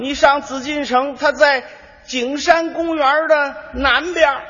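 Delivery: a lightly voiced old man stretching out the last words; helpful old Beijing man. Old man tells a tourist where the palace is, slow and drawn-out.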